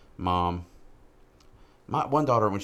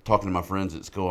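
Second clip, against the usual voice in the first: louder, sheepish daughter voice; daughter's apology; 7 dB louder than usual. Retold or imitated. Dad imitating daughter apologizing for saying bruh, louder. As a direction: backpedal like an embarrassed teen. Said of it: "she's like".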